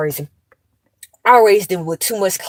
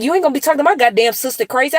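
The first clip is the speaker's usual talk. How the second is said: fast, higher angry scold; heated scolding; 6 semitones higher, faster than usual. Retold or imitated. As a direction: tell him off hard. Auntie scolding nephew.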